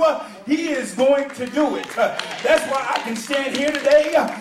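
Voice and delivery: rhythmic pulpit crescendo, rising in pitch and volume; whooping preacher cadence with punched phrase endings; building to full-force preaching. Real, not acted. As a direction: start measured, build phrase by phrase to a driving shout.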